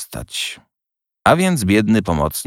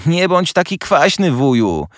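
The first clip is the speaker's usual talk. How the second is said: gentle teasing nephew; 9 semitones higher than usual. A narrator's reading. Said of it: "rzekł siostrzeniec".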